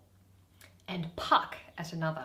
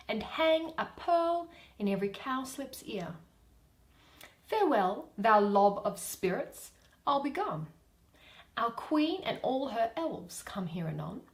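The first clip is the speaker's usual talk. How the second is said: fairy; 4 semitones higher than usual. Acted. Fairy's farewell lines.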